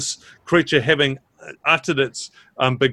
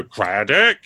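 damp muffled mushroom voice; 3 semitones lower than usual. Acted. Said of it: "talks to you".

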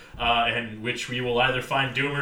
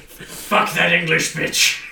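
mock Irish mother; 3 semitones higher, 6 dB louder, slower than usual. Voicing Biden's mother.

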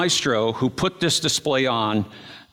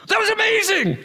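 high thrilled "amazing"; awed exclamation. Retold or imitated. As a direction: gush with wonder. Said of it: "look at each other and go".

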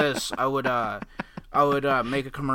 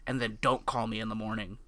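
low sultry voice; 4 semitones lower, 9 dB quieter than usual. Retold or imitated. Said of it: "she's like".

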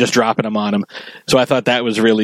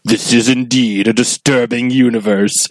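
James Earl Jones. Retold or imitated. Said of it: "it's James Earl Jones again saying".

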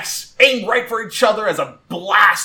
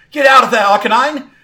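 urgent high shout; calling out; 7 semitones higher, 9 dB louder, faster than usual. Acted. Trainer warns Arcanine to escape, shouting. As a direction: yell a warning to your Pokemon. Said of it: "calls out".

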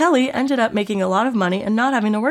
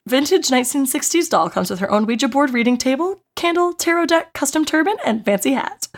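dramatic listing reread; 3 semitones higher than usual. Shown as a demonstration. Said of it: "hit me with it one more time".

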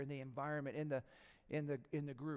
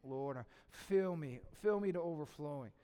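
heartfelt prayer; 3 semitones lower than usual. Acted. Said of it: "it's a sign saying in, in your heart".

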